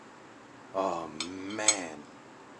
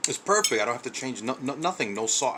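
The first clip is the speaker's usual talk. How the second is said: excited; 3 semitones higher than usual. Real, not acted. Tasting the finished dish.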